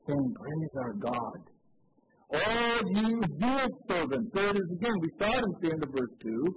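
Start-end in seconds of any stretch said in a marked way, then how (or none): 0.3-4.3 voice from the throne. Acted. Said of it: "A voice came from the throne, saying".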